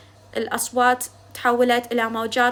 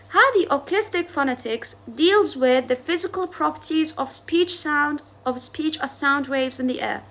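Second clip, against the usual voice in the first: slow dictation; much slower than usual. Shown as a demonstration. Repeating the definition for note-taking.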